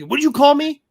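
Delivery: offended demand. Retold or imitated. Artist retelling the angry question from Landis's son, stung demand. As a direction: throw it back like the insulted guy. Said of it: "I caught it almost immediately".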